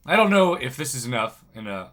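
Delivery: groggy, just-woken voice; sleepy groggy voice after a bad night. Real, not acted. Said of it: "I apologize for my groggy voice".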